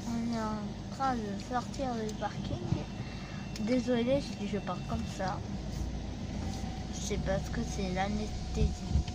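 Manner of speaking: speaking with a numb tongue; slurred from the anesthetic; numb mouth. Real, not acted. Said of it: "c'est l'anesthésie. Du coup, j'ai du mal à parler".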